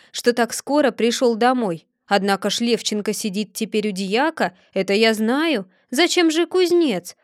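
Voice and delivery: put-on a grumbling old man reasoning aloud; Chub muttering to himself. Chub's musing voiced. (старик Чуб бормочет себе под нос)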